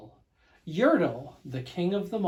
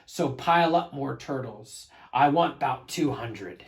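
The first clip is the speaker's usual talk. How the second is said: royal thundering order; 4 dB louder than usual. Acted. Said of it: "his royal voice thundered".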